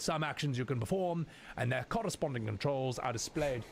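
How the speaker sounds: lightly put-on actor impression, measured reading; Anthony Hopkins. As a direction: read the tutorial in a hint of a famous actor's voice. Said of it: "we did the Anthony Hopkins voice".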